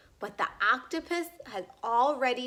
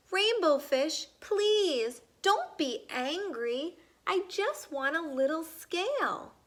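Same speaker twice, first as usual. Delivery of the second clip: high, small begging voice; pleading little fish; 6 semitones higher than usual. Acted. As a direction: coax gently like a timid little kid.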